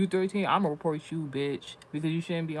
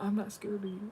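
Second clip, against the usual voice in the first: mama snapping defiantly, pitched up; mock defiant mama; 6 semitones higher than usual. Daughter voicing angry mother woken up, mock defiant. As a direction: play the mad mother. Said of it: "she's like".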